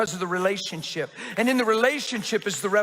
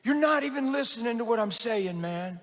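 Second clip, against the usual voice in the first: a little intense; 3 semitones higher than usual. Retold or imitated. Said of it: "And he was a little intense".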